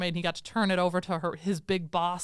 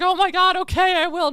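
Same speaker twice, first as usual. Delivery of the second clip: high, loud, startled compliance; mock flustered panic; 9 semitones higher, 8 dB louder than usual. Guard obeying the shouted warning, mock panic. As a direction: give in at once, hammed-up alarm.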